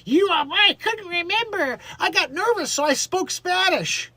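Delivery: mock Spanish accent. Mocking Baldwin's excuse.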